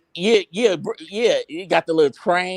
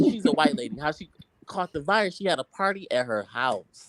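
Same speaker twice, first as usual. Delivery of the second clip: whispering; 2 semitones lower, 7 dB quieter than usual. Real, not acted.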